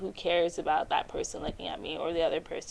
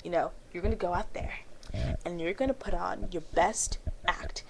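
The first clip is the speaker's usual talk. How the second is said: calming self-talk; 4 dB quieter than usual. Retold or imitated. Coaching herself in the bathroom mirror, hushed. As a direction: settle your nerves, softly. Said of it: "I go into the bathroom".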